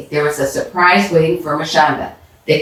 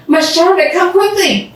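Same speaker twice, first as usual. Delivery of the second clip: excited call; 12 semitones higher than usual. Acted. Mrs Kim spotting the money by the rocks, excited high call. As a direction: call her over in a rush.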